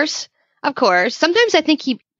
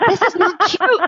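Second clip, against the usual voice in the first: higher mock protest broken by laughter; laughing protest; 9 semitones higher than usual. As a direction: scold him but crack up laughing. Retold protest to giggling husband.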